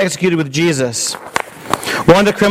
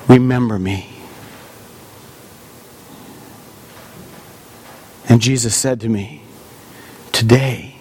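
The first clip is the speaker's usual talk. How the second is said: penitent thief retelling the crucifixion, awed and moved; repentant thief; 2 semitones higher than usual. Acted. Preacher voicing the thief on the cross, awed. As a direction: speak as the thief who met Jesus, hushed wonder.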